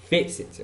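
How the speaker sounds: "facet" with a stronger opening syllable; first-syllable stress. Shown as a demonstration. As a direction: correct the stress, "facet" weighted at the front. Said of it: "louder sound".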